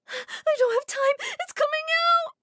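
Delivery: very high, loud, slow cry; panicked labor cry. Acted. Mary in labor cries to Omar, high and panicked. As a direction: shriek it, the baby won't wait.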